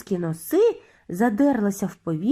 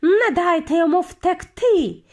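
high, raised, menacing voice; emphatic high witch's threat; hissing; 6 semitones higher, 3 dB louder, slower than usual. A narrator's reading. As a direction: command the hunt with venom. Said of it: "сичала верховна відьма".

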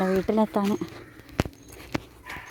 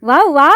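mock barking; 3 semitones higher, 7 dB louder, slower than usual. Imitating bark.

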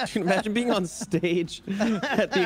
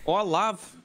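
put-on Scottish accent; 2 semitones higher, slower than usual. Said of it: "do the best Scottish accent".

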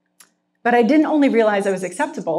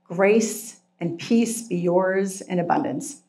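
measured, unhurried reading of scripture. Acted. Pastor reading the letter aloud to the congregation, measured and steady. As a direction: read the passage out with care. Reads First Peter aloud.

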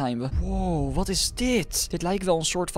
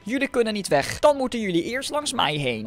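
villain voice; 6 semitones higher than usual. Acted. Villain babysitter voice.

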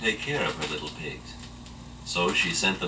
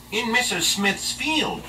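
slow, high coaxing wolf; sly wolf voice; slower than usual. Acted. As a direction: tempt the pig, drawn out. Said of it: "said the wolf".

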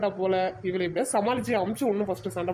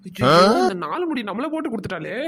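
dismayed wail; 6 dB louder than usual. Acted. Caught out, dismay.

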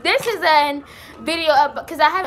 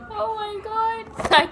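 overjoyed gasp; 7 semitones higher, 4 dB quieter, much slower than usual. Real, not acted. Opening her new camera.

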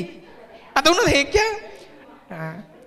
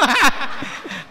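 laugh; 2 semitones higher than usual. Real, not acted. Laughing after joke.

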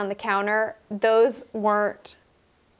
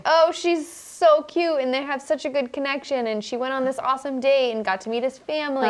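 mock gushing; 3 semitones higher than usual. Mocking her own gushing thoughts.

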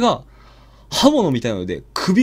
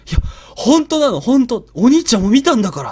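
desperate pleading; 7 semitones higher, 6 dB louder than usual. Retold or imitated. 夫に電話で訴える.

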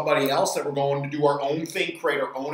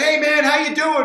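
higher, louder re-enacted hello; hailing greeting; 9 semitones higher, 6 dB louder than usual. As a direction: call out a hearty hello to the diner owner. Acting out his greeting to diner owner.

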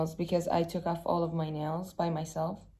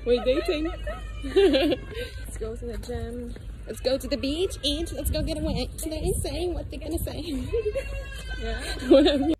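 laughing; 8 semitones higher than usual. Real, not acted. Giddy laughing with girlfriend.

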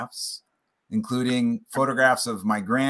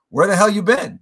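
imitating a Southern grandmother, higher and louder; Southern granny, loud and high; 9 semitones higher, 8 dB louder than usual. Grandmother scolding her grandson on the phone, Southern accent, higher and louder. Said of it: "with this Southern voice".

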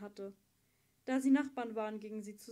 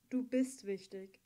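sincere, slow; 2 semitones lower, slower than usual. Acted. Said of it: "sagte er".

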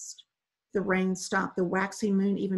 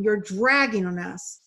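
yelling; 6 dB louder, slower than usual. Acted. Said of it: "a woman in the dinghy yelled".

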